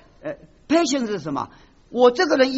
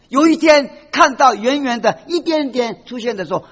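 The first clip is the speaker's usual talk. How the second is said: choked-up narration; 3 semitones higher, 5 dB louder than usual. Real, not acted. Preacher moved while telling parable.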